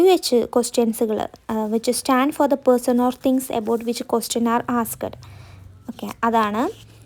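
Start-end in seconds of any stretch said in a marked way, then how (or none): 1.7-5.2 each word spaced for writing; slow dictation. Shown as a demonstration. Teacher dictating a sentence to students, very slow. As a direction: dictate slowly so students can copy. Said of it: "dictating the definition".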